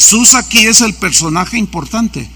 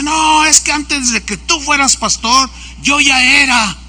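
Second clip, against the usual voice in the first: higher-pitched, mildly aggrieved protest; brusque, forceful; 5 semitones higher than usual. Retold or imitated. Jealous pastor complains to younger colleague, mock brusque. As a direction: imitate a pastor putting him in his place. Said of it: "me empieza a hablar golpeado".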